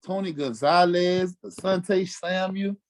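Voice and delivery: slow, weighty listing of names; slow roll call. Real, not acted. Player slowly naming the star opponents, drawn out. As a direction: draw out each name for weight.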